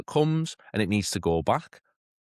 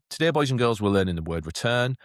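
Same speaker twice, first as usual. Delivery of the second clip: teacher addressing class; 3 semitones higher than usual. Shown as a demonstration. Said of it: "introduce you".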